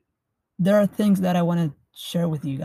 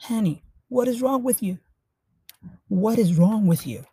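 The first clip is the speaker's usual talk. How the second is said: higher, startled demand; shocked husband; 5 semitones higher than usual. Acted. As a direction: sound caught off guard by your wife. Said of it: "the husband was shocked".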